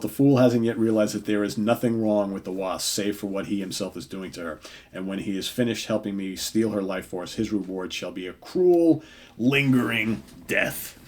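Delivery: mild scheming menace, slowing at the end; lightly voiced villainous Ultron. Reading Ultron's villain monologue.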